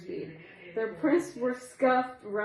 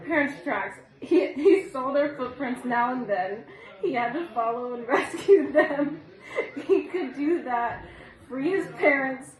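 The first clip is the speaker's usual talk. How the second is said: giggling. Real, not acted. Reader giggles through a story.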